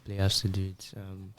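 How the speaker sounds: choppy, glitchy robot voice; like a breaking-up call. Real, not acted. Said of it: "you sound like a robot now".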